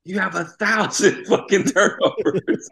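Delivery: a retold coach screaming, half laughing; imitated coach yell. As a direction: bellow it like the coach, cracking up. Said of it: "He yelled to the top of his lungs".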